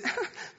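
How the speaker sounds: imitated high, soft little giggle; brief breathy mock giggle of a small girl; child's giggle. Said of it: "starts to giggle at me".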